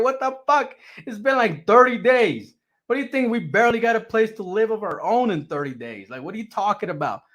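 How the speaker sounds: high, incredulous rant at his wife; exasperated disbelief. Retold or imitated. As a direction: pitch way up, stunned and arguing. Retold argument with wife.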